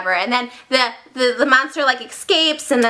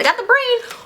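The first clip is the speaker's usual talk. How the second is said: eager Igor; 11 semitones higher than usual. Acted. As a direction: call it out like a proud henchman. Acting Igor delivering the brain.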